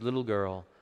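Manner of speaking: put-on soft, tender call to the girl; gentle voice to the little girl; ever so gentle. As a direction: wake her gently. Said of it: "in a voice that must have been ever so gentle".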